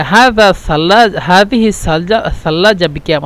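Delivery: slow careful formal Arabic. Shown as a demonstration. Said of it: "মানে এটা অন্যরকম হয়ে যায়".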